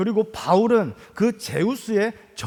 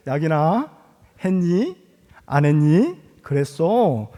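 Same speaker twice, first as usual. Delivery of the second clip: softened Seoul-standard speech; gentle standard Korean to a child; careful standard Korean; 3 semitones lower, slower than usual. Retold or imitated. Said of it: "표준어를 좀 쓰도록".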